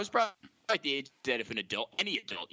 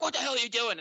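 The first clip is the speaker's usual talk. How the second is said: pitched-up imitation of a rattled dad; flustered, freaked out; 8 semitones higher, much faster than usual. Dad to the kid who fooled him, flustered. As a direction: blurt it out, high and flustered. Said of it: "so flustered and freaked out".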